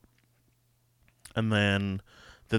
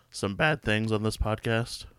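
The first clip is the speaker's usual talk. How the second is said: voice cracking. Real, not acted. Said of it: "Sorry, my voice cracked".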